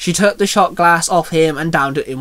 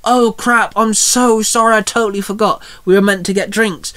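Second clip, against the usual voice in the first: lightly raised, flustered apology; apologetic girlfriend; 4 semitones higher than usual. Acted. Girlfriend forgot drinks with Jordan, mildly flustered apology. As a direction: apologise in a slightly higher voice.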